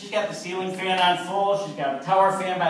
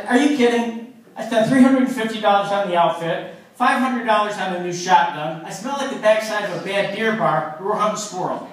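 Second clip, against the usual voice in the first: indignant outburst; 4 dB louder than usual. Retold or imitated.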